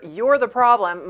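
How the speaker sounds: hammed-up blame, leaning on each word; mock accusing.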